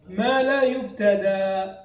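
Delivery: slow, drawn-out verse reading; verse recitation. Retold or imitated. Teacher reading out the next phrase of verse, slow recitation. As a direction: stretch each long vowel as in reciting. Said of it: "قال".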